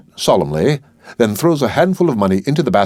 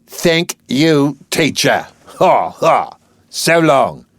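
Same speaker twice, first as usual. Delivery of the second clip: mock refined speech; 4 semitones higher, much slower than usual. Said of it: "affecting great distinction of speech".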